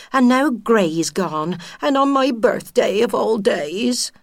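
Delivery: a hint of a put-upon widow grumbling; lightly voiced mouse moaning her bad luck in husbands. Widow mouse to her friend, lightly voiced grumbling. Mrs Gray bemoaning dead husbands.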